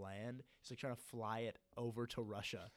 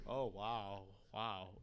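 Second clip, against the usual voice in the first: a slightly put-on, vacant "wow"; mindless awe; 3 semitones lower, much slower than usual. Viewer watching anime without subtitles, lightly mocking vacant awe. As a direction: gape at the screen like a zombie. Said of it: "mindlessly, like".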